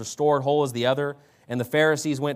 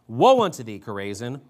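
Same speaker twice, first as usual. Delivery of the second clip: thundering woe; 4 semitones lower than usual. Acted. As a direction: boom the woe at the city. Reading Jesus rebuking cities.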